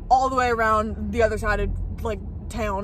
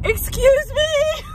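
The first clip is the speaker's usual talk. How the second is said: drawn-out nervous yell, much higher; calling out; 12 semitones higher, 4 dB louder, much slower than usual. Retold or imitated. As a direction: call into the dark, slow and loud. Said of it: "I'm just gonna yell".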